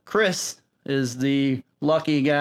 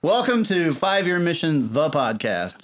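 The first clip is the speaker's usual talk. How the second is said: cartoon voice; 2 semitones higher than usual. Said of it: "Do your cartoon voice".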